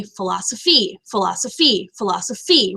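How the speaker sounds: philosoPHY, with weight on the last syllable each time; stressed final syllable. Shown as a demonstration. Teacher showing masculine rhyme, "philosophy" stressed on its last syllable. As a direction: repeat "philosophy", landing firmly on the final -phy. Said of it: "You come up, meaning it's stressed".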